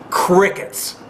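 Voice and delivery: breathy whisper, the word left hanging; a hushed, pointed crickets. Real, not acted. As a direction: whisper it like the silence you mean. Mocking silence, rhetorical repeat.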